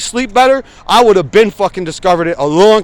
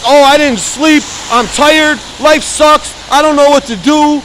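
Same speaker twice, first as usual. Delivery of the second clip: higher, slower self-pitying whine; whiny complainer; 7 semitones higher than usual. Retold or imitated. Showing viewers what real complaining sounds like, whiny and higher. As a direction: moan like life is over. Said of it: "that's fucking complaining".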